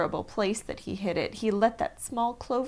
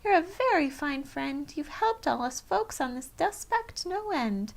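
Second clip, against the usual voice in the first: tag; 6 semitones higher than usual. A narrator's reading. Tiny mayor voice.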